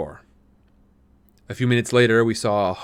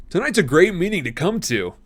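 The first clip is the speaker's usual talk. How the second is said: enthusiastic; 8 semitones higher, 4 dB louder than usual. A narrator's reading. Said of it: "Tom said enthusiastically".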